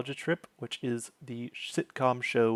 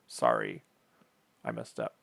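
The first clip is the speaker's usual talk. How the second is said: breathy whisper, much lower; whispered apology; 14 semitones lower, 6 dB quieter than usual. Real, not acted. Host apologizing to viewers for a slip, whispered. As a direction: mutter it under your breath. Host catching her own mistake.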